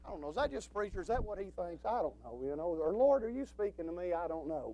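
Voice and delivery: soft, doubtful murmur to yourself; inner wondering voice. Acted. Preacher voicing a listener's private doubt, soft murmur. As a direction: wonder under your breath. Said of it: "a voice down in you wondering".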